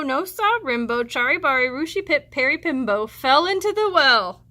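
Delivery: lively read-aloud storytelling; expressive storybook reading; story narration. A narrator's reading. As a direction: read it to the class like a picture book. Teacher reads story aloud.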